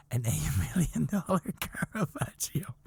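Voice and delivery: whispered through laughter; half-laughing, breathless. Real, not acted. Teller laughing at the theft.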